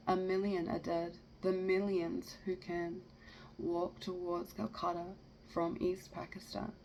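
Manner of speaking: measured, rhythmic poem recital; poetry reading. Acted. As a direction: read verse aloud, landing on each rhyme.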